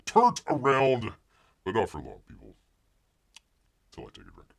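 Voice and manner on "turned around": a drawn, playful repeat; slowed mock echo. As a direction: stretch it out slowly. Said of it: "I'm getting all turned around".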